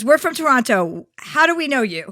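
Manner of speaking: polite tourist. Retold or imitated. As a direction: ask sweetly like a starstruck tourist. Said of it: "she goes".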